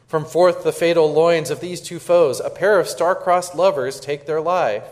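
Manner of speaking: measured, dramatic reading of verse; reading the prologue aloud. Acted. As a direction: read it like a stage prologue. Reads the Romeo and Juliet prologue.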